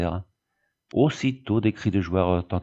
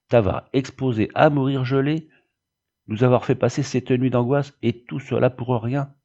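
raised, mildly indignant reproach; indignant outcry; 4 semitones higher than usual. Acted. Wife protests over the night of anguish, indignant. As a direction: protest it with a touch of outrage. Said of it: "s'écria madame Malprat".

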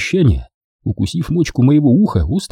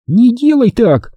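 higher, slow startled exclamation; cry out; 13 semitones higher, 3 dB louder, slower than usual. A narrator's reading. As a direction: exclaim it sharply. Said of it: "вскричала она". (вскрикнув)

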